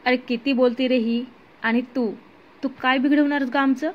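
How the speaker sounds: rough thug voice, menacing; lightly voiced thug threatening to shoot the captive; fat thug. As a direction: lean in and threaten her. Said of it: "एक जाड गुंड म्हणाला".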